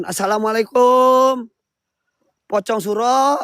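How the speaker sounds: summoning incantation. Acted. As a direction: intone it like a ritual summons. Summoning spirits to appear.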